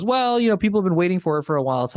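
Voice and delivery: lightly voiced employee airing grievances; imitating an executive. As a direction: quote the venting teammate, pitched high and fast. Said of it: "Then someone goes".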